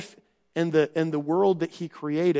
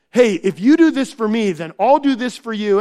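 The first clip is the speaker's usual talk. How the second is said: louder, breezy mock deal; mock bargaining; 3 semitones higher, 6 dB louder than usual. Preacher mocking a tit-for-tat deal with God, loud and breezy. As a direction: toss off the bargain like a trader.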